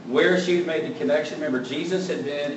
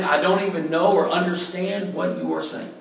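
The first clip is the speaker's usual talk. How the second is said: more irritated; 4 semitones higher than usual. Retold or imitated. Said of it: "a little bit more irritated".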